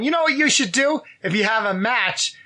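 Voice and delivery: put-on light New York accent, retelling advice; a hint of a New York accent. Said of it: "I don't know why I have a New York accent".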